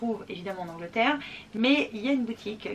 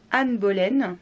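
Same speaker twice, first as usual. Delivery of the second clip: English pronunciation; 7 dB louder, much slower than usual. Shown as a demonstration. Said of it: "je crois que c'est comme ça qu'il faut le dire".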